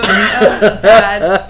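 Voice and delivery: laughing. Real, not acted. Embarrassed by replayed clip.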